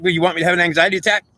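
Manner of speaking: confronting the goddess in his head, rattled and pleading; heated retort. Retold or imitated. Man to the inner goddess, high agitated accusation. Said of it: "but I'm like".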